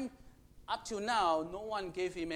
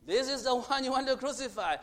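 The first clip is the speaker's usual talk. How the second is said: raised, louder proclamation; Pilate presenting; 5 semitones higher, 8 dB louder than usual. Retold or imitated. Pilate showing Jesus to the crowd, proclaiming loudly. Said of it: "Pontius Pilate brought him up and said".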